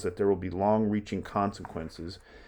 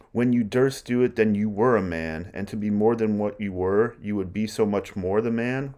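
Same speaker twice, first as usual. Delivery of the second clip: goading paraphrase. Retold or imitated. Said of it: "That's what Lady Macbeth is saying".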